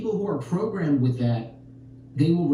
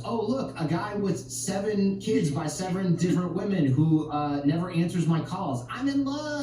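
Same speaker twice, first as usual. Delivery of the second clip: mock swooning; 5 semitones higher than usual. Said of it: "They go".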